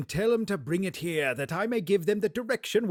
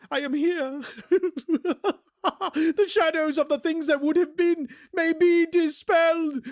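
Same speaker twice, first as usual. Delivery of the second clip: high, laughing, breathless joy; giddy Scrooge; 7 semitones higher than usual. Acted. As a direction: bubble over like a delighted child.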